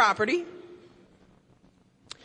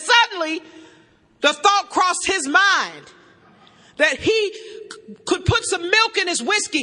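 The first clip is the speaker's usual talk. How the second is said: reading from the book; 3 semitones higher than usual. Acted. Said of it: "It says".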